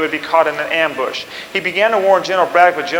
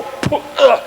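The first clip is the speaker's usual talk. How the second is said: mock dying gasp; 7 semitones higher than usual. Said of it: "you just go".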